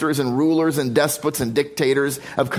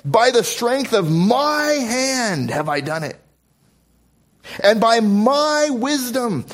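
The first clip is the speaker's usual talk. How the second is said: boastful king; 7 semitones higher, slower than usual. Acted. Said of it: "the king of Assyria ... say".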